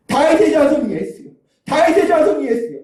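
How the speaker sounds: acted high-pitched desperate call; crying out loud. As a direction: call out repeatedly to be heard over a crowd. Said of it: "소리소리 질렀을 겁니다".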